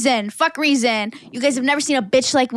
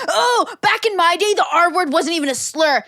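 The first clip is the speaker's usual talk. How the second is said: lampoon the back-in-my-day crowd, pitched up; mocking old-timer; 5 semitones higher than usual.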